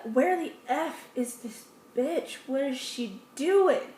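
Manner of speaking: irritated grumble. Retold or imitated. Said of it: "I'll be really irritated".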